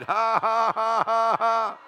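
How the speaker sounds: high, loud forced ha-ha-ha; defiant laughing. Shown as a demonstration. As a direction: punctuate the verse with a big laugh. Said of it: "Let's try that again".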